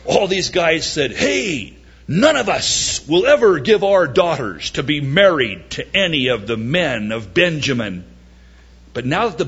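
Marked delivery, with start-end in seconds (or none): 1.1-8.0 mock vow. Men of Israel making vow.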